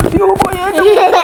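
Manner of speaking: high, slow, laughing mock alarm; laughing tease. Real, not acted. Mother playfully teasing child.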